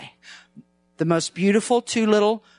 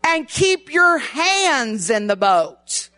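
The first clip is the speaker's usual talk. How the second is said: slow, deliberate slogan delivery; slow chanted sermon title; 3 semitones higher, slower than usual. Shown as a demonstration. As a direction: lay out the title slowly. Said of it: "Tonight it's".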